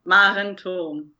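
slow, careful "Maren Tom"; name pronunciation demo. Shown as a demonstration. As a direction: say "Maren Tom" slowly, showing the surname's pronunciation. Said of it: "how do you pronounce your surname".

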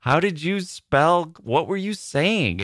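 high, slow, disbelieving question; incredulous questioning. Retold or imitated. Asking friend about his misheard word, incredulous. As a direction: drag it out in mock disbelief.

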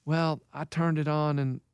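low, soft, deadpan coach impression; Keith. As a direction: imitate an older friend's low, quiet phone voice. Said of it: "What do you mean, Keith?".

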